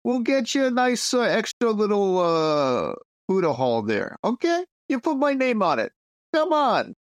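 a New York mobster offering the monastery a donation; New York mobster accent. Pretend. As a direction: sell the bribe in a New York wise-guy accent. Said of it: "not appreciating our accents".

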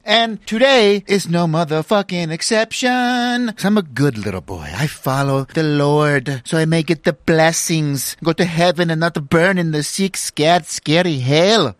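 lightly put-on Scottish accent, slow in places; a hammed-up fake Scottish preacher accent; knockoff Scottish accent. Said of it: "I don't know what kind of accent that is".

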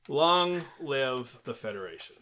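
stiff robotic monotone; flat mechanical pronouncement. Pretend. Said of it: "Why did you read that like a robot?".

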